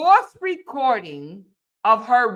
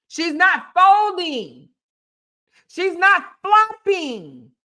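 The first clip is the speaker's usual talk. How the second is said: pleading husband; 5 semitones higher, 3 dB louder, slower than usual. Acted. Acting out his pleading.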